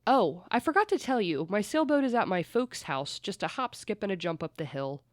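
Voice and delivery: retold quote put on as mock British; playful British accent mimicry. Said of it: "in a British accent".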